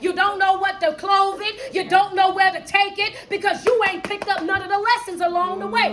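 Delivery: driving, emphatic motivational preaching; fervent preaching. Real, not acted. Coach warning listeners about skipping life's lessons, preaching. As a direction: preach it, leaning hard on key words.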